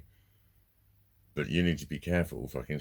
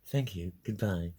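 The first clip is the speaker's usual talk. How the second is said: slow, mimicked smug sign-off; 3 semitones higher, slower than usual. Caller ending the call, imitated smug politeness. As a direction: mimic a self-satisfied goodbye, drawn out. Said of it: "he really smugly went".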